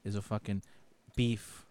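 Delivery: a hint of a Chicago blowhard; mock Chicago tough guy. Chicago native lecturing Johnny on sandwiches, lightly hammed-up bluster.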